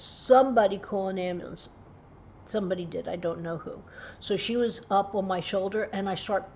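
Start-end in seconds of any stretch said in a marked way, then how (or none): 0.0-1.7 a milder repeat of the cry; a hint of a retold yell; repeated call. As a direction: call out again, less force. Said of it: "And I'm screaming".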